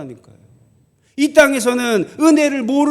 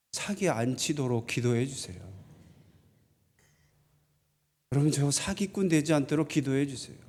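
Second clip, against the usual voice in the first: much softer and lower, a sincere quiet request; soft humble plea; 8 semitones lower, 11 dB quieter than usual. Real, not acted. Pastor asking the congregation to pray he won't cheat, softly. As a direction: lower your voice and ask them humbly to pray for you.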